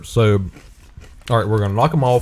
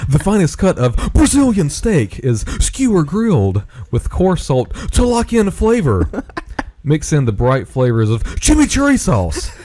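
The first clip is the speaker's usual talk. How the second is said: hammed-up copy reading; 3 semitones higher than usual. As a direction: read the bag like overblown ad copy. Hammed-up reading of chip-bag copy.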